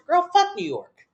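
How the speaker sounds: high, drawn-out mock outburst; acted exasperated comeback. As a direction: fire back in a high, exasperated voice.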